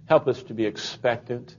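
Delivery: measured, earnest prayer with softened phrase endings; congregational prayer. Real, not acted. Pastor leads the bowed congregation in prayer, reverent and measured. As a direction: pray reverently aloud, letting each phrase settle.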